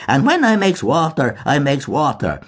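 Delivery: put-on high, wheedling old crone; old woman's wheedling voice. A narrator's reading. Mulligan mimicking an old woman, wheedling high. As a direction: coax it like a cunning old woman. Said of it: "in an old woman's wheedling voice".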